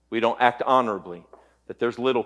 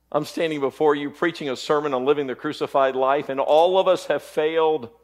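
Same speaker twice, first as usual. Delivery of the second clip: raised pulpit voice; impassioned preaching; 5 semitones higher, 4 dB louder than usual. Real, not acted. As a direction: press the confession on the congregation, pitched up.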